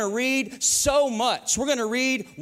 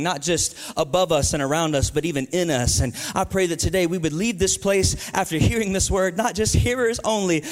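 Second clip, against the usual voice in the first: lower-pitched congregational prayer; earnest prayer; 4 semitones lower than usual. Real, not acted. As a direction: pray sincerely on behalf of the church.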